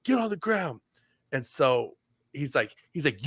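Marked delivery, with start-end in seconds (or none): 0.0-0.8 retold command. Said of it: "And he's like".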